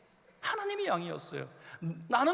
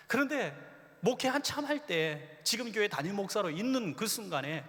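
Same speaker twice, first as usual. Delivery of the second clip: ordinary delivery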